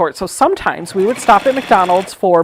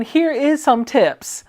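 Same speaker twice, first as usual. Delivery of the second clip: higher, slow, incredulous quote; slowly mocking a Metro announcement; mock disbelief; 6 semitones higher, slower than usual. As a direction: draw out the bad grammar in mock dismay. Mockingly quoting the ungrammatical announcement.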